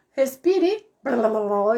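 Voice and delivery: mock someone tripping over people with words; rushed babble. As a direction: gulp a breath, then blurt out gibberish. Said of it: "Parece que tá despejando um caminhão de melancia".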